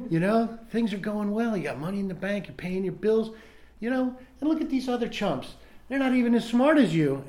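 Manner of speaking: a buddy-like voice in his head coaxing him to drink; tempting inner voice. Retold or imitated. His mind sweet-talking David back toward the bar, coaxing and rising. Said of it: "It sounds like".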